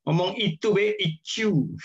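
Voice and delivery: lightly voiced affected, cutesy speech; mock coquettish talk. Teacher mocking affected coy speakers, lightly cutesy. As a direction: mimic someone talking all coy and sweet. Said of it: "Kadang kayak sing lenjeh-lenjeh gitu ya".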